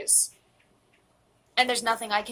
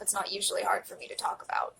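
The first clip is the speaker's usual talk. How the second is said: tearful whisper, voice nearly gone; fighting to keep it together; holding back tears; 4 dB quieter, faster than usual. Real, not acted. Admitting on camera it still hurts, tearful whisper. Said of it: "I don't usually get emotional".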